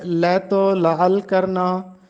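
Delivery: slow लैतो लाल करना, "lai-to la-al karna"; careful slow model of लैतो लाल करना; correct pronunciation. Shown as a demonstration. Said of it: "दुरुस्त तलफ़ुज़ बताना है".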